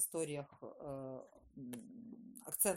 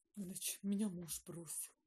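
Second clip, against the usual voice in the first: mock heavy, sorrowful, dramatic, mournful tone; 3 semitones higher than usual. Retelling how she announced her husband left her, mock-tragic tone. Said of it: "Я таким трагичным тоном".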